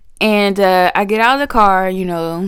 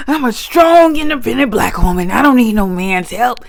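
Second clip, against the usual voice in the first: sassy defiance; 4 semitones higher than usual. Retold or imitated. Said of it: "I said".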